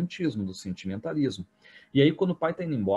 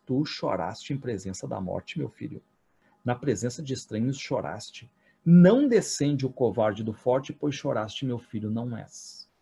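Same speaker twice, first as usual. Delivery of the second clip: tiger voice. Retold or imitated. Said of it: "com voz de tigre".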